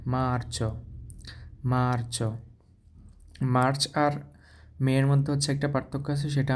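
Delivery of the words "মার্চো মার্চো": মার্চো with the z said like ch, mar-cho; Italian Marzo. Shown as a demonstration. Teacher shows the z sounded like ch in Italian. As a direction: model মার্চো, z as ch. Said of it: "জেডটা হচ্ছে চর মতো উচ্চারণ হবে".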